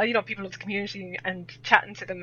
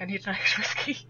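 laughing correction; 4 dB quieter than usual. Retold or imitated.

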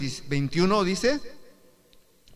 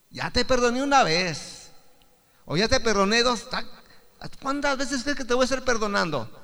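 mock exasperation; 5 semitones higher than usual. Voices an unforgiving brother.

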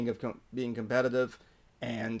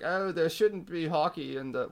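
put-on British accent; 4 semitones higher than usual. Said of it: "why am I doing a British accent?".

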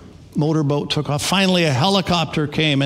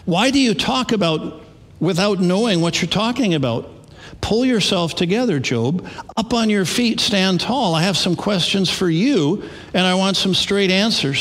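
a lightly acted God, pitched higher, demanding; a hint of a stern God questioning Job; God speaking to Job; 6 semitones higher than usual. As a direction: challenge Job from on high in a raised, higher voice. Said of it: "This is God to Job".

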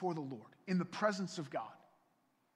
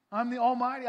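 louder, higher proclamation; booming God voice; 6 semitones higher, 9 dB louder than usual. Acted. God declaring himself to Abram, booming.

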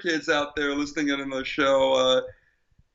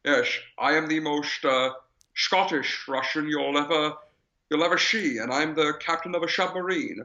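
lightly put-on Scottish burr, slurred s; mock Scottish-accented submarine captain; Sean Connery's Scottish. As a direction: imitate a Scotsman unconvincingly playing a Russian. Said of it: "That thick Scottish accent always comes out".

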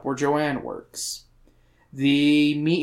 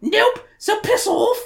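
high-pitched, drawn-out British refusal; comic British woman, slow and sky-high; British accent. Acted. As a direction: dismiss them in a high British voice. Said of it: "I gave her a British accent".

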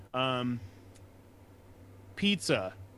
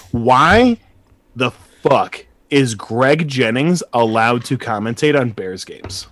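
angry rant; 13 dB louder than usual. Real, not acted. Ranting about Bears commentators.

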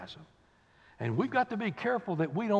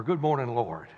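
glad greeting; 9 semitones lower than usual. Retold or imitated.

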